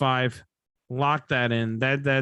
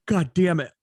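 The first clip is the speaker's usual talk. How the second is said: yawning; 4 semitones higher than usual. Real, not acted. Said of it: "I've never yawned this much".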